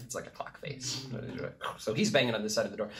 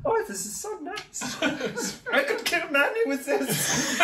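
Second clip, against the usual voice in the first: put-on posh British accent. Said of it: "says the sword".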